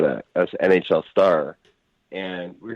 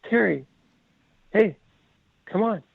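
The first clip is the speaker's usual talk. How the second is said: put-on kids calling out. Kids call after the departing player, high pleading. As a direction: call him back in a high, light voice.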